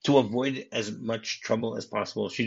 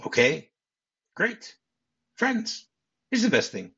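a hammed-up Sally insisting; mock Sally; slower than usual. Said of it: "then she goes".

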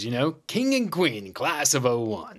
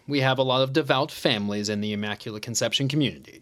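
salesy pitch; faster than usual. Acted. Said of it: "Like you're on the admissions committee".

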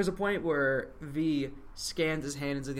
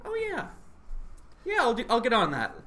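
Merlin impression; 7 semitones higher than usual. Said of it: "And Merlin's just like".

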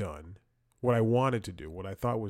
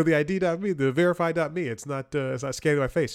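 higher, louder retelling of his own complaint; mock frustrated call; 6 semitones higher, 6 dB louder than usual. Caller complaining to a sleepy support guy, louder and higher. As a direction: push it up like you're fed up with the line.

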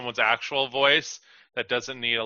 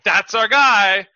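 higher, louder cheer; hammed-up casting director's cheer; casting someone off the street with mock delight; mock enthusiasm; 8 semitones higher, 8 dB louder, slower than usual. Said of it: "They're like".

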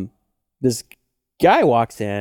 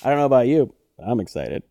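deadpan; faster than usual. Retold or imitated. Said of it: "It's a total dead face look".

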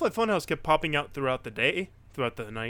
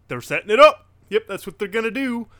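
higher-pitched, acted-out excitement; excited realisation; 7 semitones higher, 8 dB louder, faster than usual. Fan re-enacting spotting the storyline set-up, excited. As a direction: call it out high, sure of what's coming. Acting out own excited reaction.

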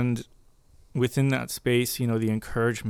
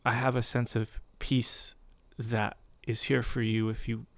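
gentle voice of God. Retold or imitated. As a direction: hush it down, tender and unhurried. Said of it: "his voice just so gently".

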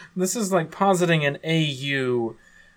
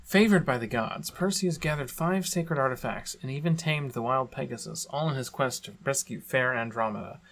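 dramatic lore reading=22. Acted. Reads skin lore aloud.

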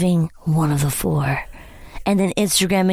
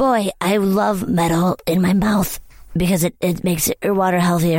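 voicing a commenter. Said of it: "what are these comments like".

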